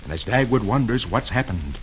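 low, soft, slow narration; suspenseful hush. A narrator's reading. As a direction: hush it for the eerie silence. Sudden frightening silence in the story.

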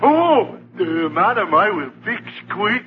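fake French accent. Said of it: "he doesn't sound very French".

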